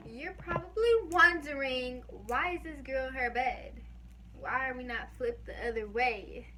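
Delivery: breathless talking between gasps; winded, catching breath. Real, not acted. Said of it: "Woo, I'm out of breath".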